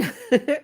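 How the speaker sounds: brief light laugh; a small amused chuckle; short chuckle. Real, not acted. Streamer thanking a viewer, short chuckle.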